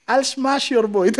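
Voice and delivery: slow, mock Russian accent; Khabib. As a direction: stretch it out like a Russian fighter's catchphrase. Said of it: "Yun yung iconic niya".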